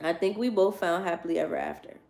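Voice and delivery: measured, subdued read-aloud; quoting the book. Real, not acted. Reading a storybook line to listeners, measured and subdued. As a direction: read the line back evenly. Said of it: "That's what it says".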